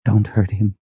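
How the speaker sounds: high, pleading request; a small, imploring plea; begging. Acted. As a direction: plead for him, voice lifted. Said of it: "she begged".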